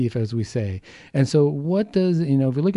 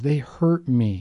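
slow, weighted they hurt me; slow emphasis; much slower than usual. Shown as a demonstration. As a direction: lean on hurt slowly. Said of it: "listen to the words we use".

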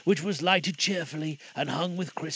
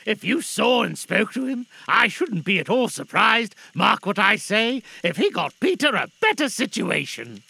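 loud, emphatic prediction; hopeful father Bob; 5 semitones higher, 6 dB louder than usual. Acted. Bob telling wife of Peter's prospects, hopeful. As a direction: speak up, keen and confident.

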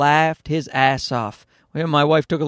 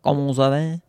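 French with a clumsy English accent; English-speaker's French accent; bad French accent. Shown as a demonstration. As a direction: attempt French in an unconvincing accent. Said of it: "it doesn't sound right".

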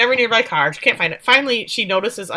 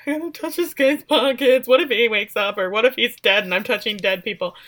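mock freaking out; 2 semitones higher than usual. Daughter told to search pockets, mock freaking out. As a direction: imitate a squeamish panic. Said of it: "Andy's freaking out".

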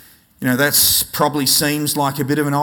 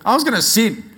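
laughing; 6 semitones higher, 5 dB louder, faster than usual. Retold or imitated. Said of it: "I'm going".

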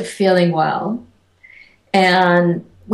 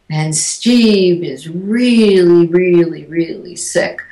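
wicked voice; 3 dB louder, slower than usual. Retold or imitated. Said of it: "in a really wicked voice".

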